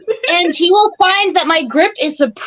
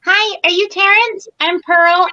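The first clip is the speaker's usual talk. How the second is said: lightly voiced polite greeting, pitched up; polite introduction; 5 semitones higher than usual. Pearl greeting the man who hired them, polite introduction. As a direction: introduce yourself politely, a little higher. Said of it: "walk up and be like".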